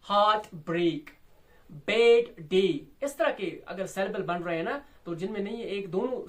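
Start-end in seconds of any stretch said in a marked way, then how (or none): 0.1-1.0 heartbreak as two separate strong beats; equal stress. Shown as a demonstration. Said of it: "same intensity दोनों सेल बैलेंस की है". 1.9-2.8 bad day as two separate strong beats; bad day, both words firmly stressed; equal stress. Shown as a demonstration. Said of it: "same intensity दोनों सेल बैलेंस की है".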